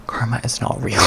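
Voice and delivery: breathy whisper, barely voiced. Real, not acted. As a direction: let it slip out as a secret. Repeating the punchline quietly.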